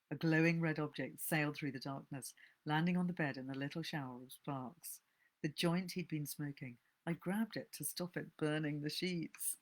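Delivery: steady reading of a thriller, a little hushed; story narration. A narrator's reading. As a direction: read the tale aloud as a narrator, drawing listeners in. Reads a novel aloud.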